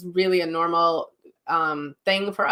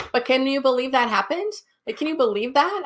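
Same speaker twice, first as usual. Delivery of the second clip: amazed spirit; 7 semitones higher than usual. Retold or imitated. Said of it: "He goes".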